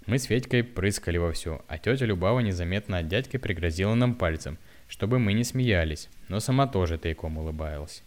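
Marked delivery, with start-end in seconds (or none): none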